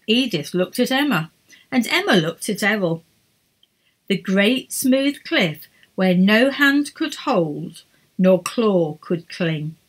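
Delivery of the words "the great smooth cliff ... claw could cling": slow, hushed dramatic telling; ominous narration. A narrator's reading. Narrator unveiling the cliff, slow ominous telling. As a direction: linger on the dread.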